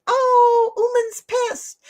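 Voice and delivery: high, wailing dog voice; imitated worried dog. Dog running in to an angry owner, high mock wail. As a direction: voice a panicky pet in a high whine. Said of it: "didn't come running in going".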